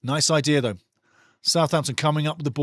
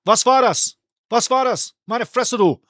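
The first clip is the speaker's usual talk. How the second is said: higher, louder German exclamation; German exasperation, pitched up; German outburst; 6 semitones higher, 4 dB louder than usual. Retold or imitated. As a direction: voice the player's German outrage. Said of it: "He said".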